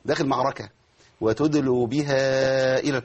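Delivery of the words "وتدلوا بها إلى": slow recitation broken off right after إلى; odd stop. Shown as a demonstration. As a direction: chant وتدلوا بها إلى and halt on إلى. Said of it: "وقف غريب جدًا".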